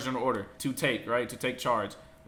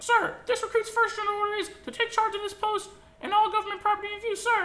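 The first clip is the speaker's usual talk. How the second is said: much higher, loud barked recitation; recruit sounding off; 5 dB louder than usual. Retold or imitated. Recruit reciting first general order to instructor, sounding off loud. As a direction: bellow the answer like a boot camp recruit.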